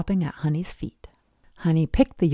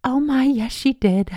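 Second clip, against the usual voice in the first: high, louder burst of recognition; bubbly exclamation; 9 semitones higher, 5 dB louder than usual. A narrator's reading. Youngest sister thanking a stranger for returned yarn, exclaiming. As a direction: exclaim eagerly in the character's voice.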